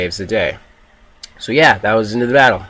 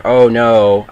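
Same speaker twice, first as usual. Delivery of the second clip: mock dismay; 7 dB louder than usual. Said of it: "and I'm just like".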